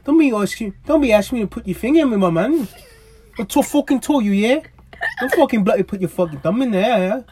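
a British bloke telling off his partner, loud; British accent. Acted. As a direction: play an angry London geezer. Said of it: "They were in England".

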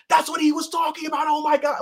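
high, loud, astonished cry; amazed shout. Pretend. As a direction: gasp it out like a stunned fan. Imagined fans' amazed reaction.

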